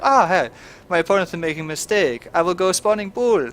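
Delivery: lightly put-on French accent, playful; mock French accent. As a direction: voice the Zerg player in a hammed-up French accent. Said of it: "giving him some kind of weird French accent".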